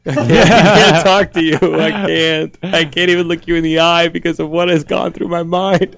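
comic awkward pleading; flustered apology. Acted. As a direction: sheepishly confess to a crush, voice pushed up. Flustered confession to an actress.

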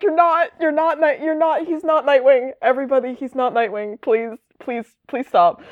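high, pleading exasperated voice; high exasperated Nightwing. Retold or imitated. Nightwing begging people to ignore Jason, high exasperated. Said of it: "And Nightwing's like".

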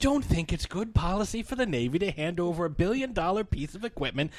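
gruff quoted movie line, slowing at the end; Bruce Dern impression. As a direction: deliver it like a grumpy admiral. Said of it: "Bruce Dern delivering that line".

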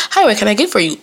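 lilting counter greeting; customer-service voice. Acted. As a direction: put on the animated greeting for customers. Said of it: "I ain't got the, um".

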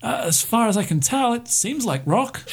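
high, relieved voice of a parched survivor; stranded pilot. Acted. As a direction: play the stranded pilot high, grateful and desperate.

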